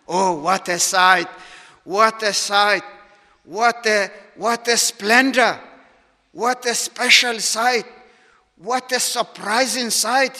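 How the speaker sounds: measured marvelling, building slightly with each repeat; emphatic exclamation of wonder. Acted. Preacher marvelling at the sight of the church, emphatic wonder. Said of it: "There is something surprising".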